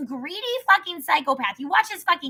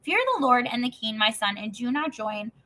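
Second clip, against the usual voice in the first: scripture reading. Acted. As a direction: read it out measured and steady. Reads Proverbs chapter aloud.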